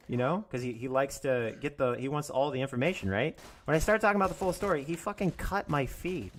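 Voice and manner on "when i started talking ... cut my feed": heated rush. Real, not acted. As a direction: blurt it out, worked up. Repeats the line, heated.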